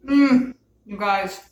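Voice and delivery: slow, loud drawn-out mm of delight; savoring moan. Real, not acted. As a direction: moan over the first bite. First bite of the food.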